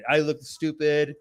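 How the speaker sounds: squeaky, half-laughing mock of a humiliated husband; mock husband whining. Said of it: "the husband's like".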